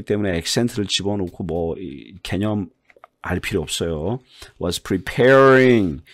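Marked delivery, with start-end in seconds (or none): 4.6-6.0 Was preparing very slow and louder; model pronunciation. Shown as a demonstration. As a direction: spell out preparing syllable by syllable. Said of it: "prepare 소리 났죠". (preparing 또박또박 시범)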